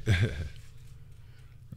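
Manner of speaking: breathy laugh. Real, not acted. Laughs at the stream.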